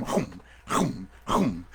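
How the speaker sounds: repeated gobbling snaps; imitated bear snapping; bear chomping. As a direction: chomp after the prey three times. Bear chasing and snapping at duck.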